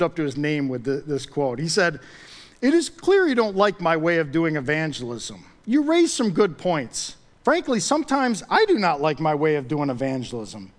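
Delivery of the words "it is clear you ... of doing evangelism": mildly crabby, emphatic comeback; crabby retort. Acted. Evangelist answering a critic of his methods, crabby. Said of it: "Kinda crabby".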